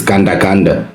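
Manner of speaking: "Ganda Ganda" said as two matching words, each ending in -da; correct name pronunciation. Shown as a demonstration. Panelist correcting her name for the others, firm "Ganda Ganda". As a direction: say "Ganda Ganda" as the same word twice. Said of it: "you must get my name right".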